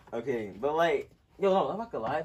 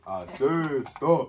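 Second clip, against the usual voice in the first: slow barked order; barking gym coach; 4 dB louder, much slower than usual. Pretend. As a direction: drag it out like a coach. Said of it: "Oh, that's good".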